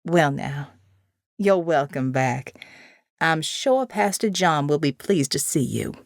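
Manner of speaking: put-on a sweet, frail elderly nun; kindly old woman. Elderly nun welcomes her.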